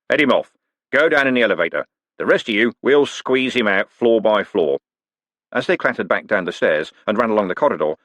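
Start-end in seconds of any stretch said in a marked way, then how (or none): 0.1-4.8 coachman giving orders. Acted. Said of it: "a coachman who was faster".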